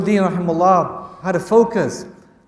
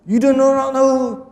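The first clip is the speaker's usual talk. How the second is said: angry Hajjaj; 6 semitones higher than usual. Acted. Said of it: "Hajjaj becomes angry".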